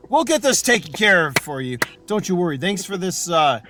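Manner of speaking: cheerfully hustle them to the door; hurried NPC. Acted. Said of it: "he says".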